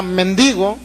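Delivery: "mendigo" stressed on the middle syllable, men-DI-go; careful "mendigo", weight on DI. Shown as a demonstration. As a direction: say "mendigo" with the accent on the I. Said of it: "con acento en la I".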